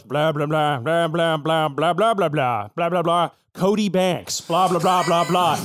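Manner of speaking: subdued, mournful gibberish. Acted. Cop breaking news at the vet, mournful. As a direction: deliver bad news in gentle blah-blah. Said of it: "The cop mournfully goes".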